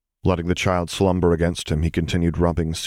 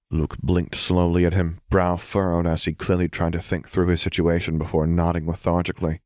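ordinary delivery

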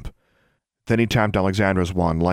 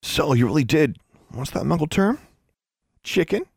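put-on taunting boy; 9 semitones higher than usual. A narrator's reading. Larry taunting Alexandra.

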